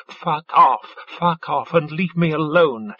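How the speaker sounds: snapped out bitterly; spat. Acted. Sobbing lover spitting at partner to leave. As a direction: spit the words at her. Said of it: "Djale spat".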